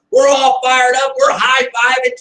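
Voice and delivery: loud, slow, pumped-up yell; fired-up shout. Retold or imitated. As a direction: celebrate out loud like the team just won. Team bursts in celebrating.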